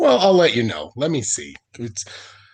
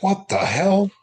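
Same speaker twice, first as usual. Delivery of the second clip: baffled; 10 semitones higher than usual. Retold or imitated.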